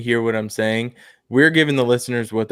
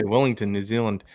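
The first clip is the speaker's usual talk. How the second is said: warming up a New Zealand accent; tentative New Zealand accent; 3 semitones lower, 5 dB quieter than usual. Shown as a demonstration. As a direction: find the Kiwi vowels on place names. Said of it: "my New Zealand accent is".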